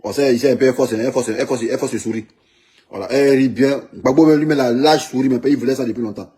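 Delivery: ordinary talk, nothing marked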